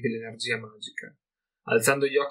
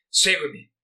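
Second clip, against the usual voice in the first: convincing call, raised and higher; shout; 4 semitones higher, 3 dB louder than usual. A narrator's reading. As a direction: urge them to follow as firmly as possible. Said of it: "urlò".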